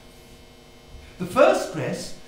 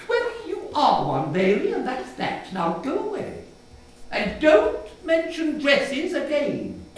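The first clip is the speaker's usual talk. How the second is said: stern and final, slowing at the end; closing the subject for good; firm dismissal; 5 semitones higher than usual. Acted. Mother sends child away, firm and stern.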